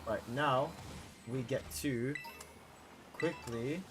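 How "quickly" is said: quickly said slow with a rising lift; stress on quickly. Shown as a demonstration. Streamer to chat, stressing quickly. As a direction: lean on quickly, drawn out. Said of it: "emphasis on quickly".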